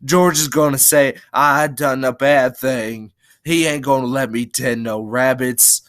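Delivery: put-on a touch of childlike fright; frightened pleading. Lenny dreading losing the rabbits, frightened pleading. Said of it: "began to cry with fright".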